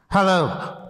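hello sent far off from the speaker; thrown voice. Shown as a demonstration. Ventriloquist showing kids a thrown voice, distant. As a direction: throw the voice across the room. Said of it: "I'd better do that for you today".

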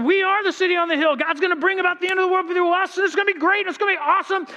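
high mock-grand announcement; mock triumphant. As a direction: ham up the smug Americans. Americans quoted proudly.

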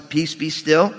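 understated, unexclaimed command; calm command. Acted. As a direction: still a storm without raising your voice. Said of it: "No exclamation points in that".

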